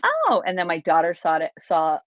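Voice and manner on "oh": unimpressed oh. Retold or imitated. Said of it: "she was just like".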